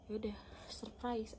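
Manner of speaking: soft imitated half-whisper; retold hushed surprise. Retelling the church surprise, hushed. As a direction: act out the surprise under your breath.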